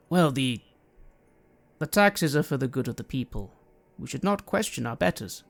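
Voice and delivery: understated grave reply, with heavy pauses; measured, mildly stern champion; very serious. Acted. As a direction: say it solemnly, pausing before the point. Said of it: "his expression just goes very serious".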